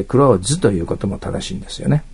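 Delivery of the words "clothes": "clothes" said as klouz, no th sound; clothes without th. Shown as a demonstration. Teacher shows students the easy way to say clothes, no th sound. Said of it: "ティーエイチの発音しなくて".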